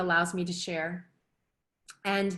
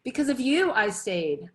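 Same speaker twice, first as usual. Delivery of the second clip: choked up; 4 semitones higher, 4 dB louder than usual. Real, not acted. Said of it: "gonna get a little choked up".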